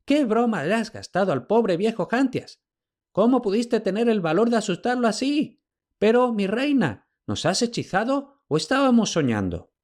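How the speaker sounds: high, giddy babble; old servant gushing with relief; babbling old slave. A narrator's reading. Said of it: "balbuceó".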